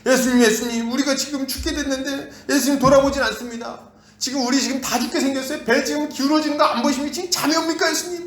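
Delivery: high, urgent pleading to wake Jesus; panicked disciples. Acted. Disciples waking Jesus in the storm, high-pitched panic. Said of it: "예수님을 깨우죠".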